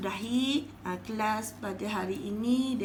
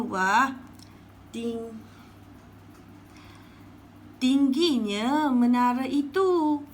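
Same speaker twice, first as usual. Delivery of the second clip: awed exclamation; 2 semitones higher, slower than usual. Shown as a demonstration. Teacher demonstrates an awed exclamation at a tall tower. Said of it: "ni adalah contoh ayat bagi tanda".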